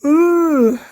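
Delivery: high, loud ooh; a teasing ooh of surprise; a high, teasing gasp at the tweet; mock-impressed ooh. Real, not acted. Reacting to a tweet.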